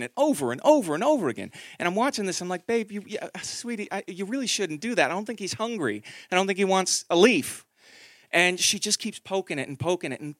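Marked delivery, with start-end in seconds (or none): 2.7-7.6 gentle warning. Retold or imitated. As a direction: coax her gently to stop. Gently warning daughter about snail.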